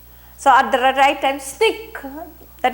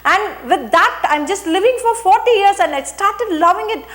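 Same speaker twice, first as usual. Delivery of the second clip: emotion with dignity; 3 semitones higher than usual. Shown as a demonstration. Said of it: "I was conscious of break in my voice".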